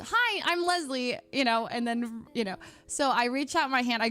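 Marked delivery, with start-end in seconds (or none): 0.0-1.2 planned greeting. Retold or imitated. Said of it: "my plan is just".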